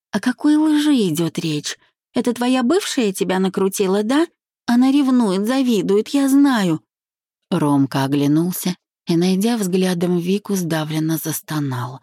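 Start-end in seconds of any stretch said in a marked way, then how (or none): 0.1-6.8 high, pleading self-defence; flustered. A narrator's reading. Bride blaming the jealous ex, flustered high protest. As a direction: protest innocence in a lifted voice. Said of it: "сбивчиво произнесла".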